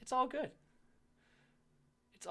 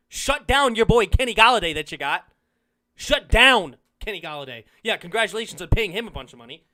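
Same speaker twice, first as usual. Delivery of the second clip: loud, jeering rant at a rival fan; heated trash talk; 7 dB louder than usual. Real, not acted. Mocking a rival fan, loud heated jeering. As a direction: ram it down his throat, loud and mocking.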